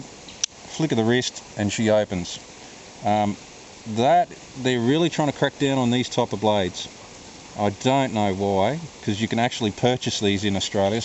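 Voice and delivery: talking around a cigarette; words round a cigarette in the mouth. Real, not acted. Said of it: "talking with a cigarette in my mouth".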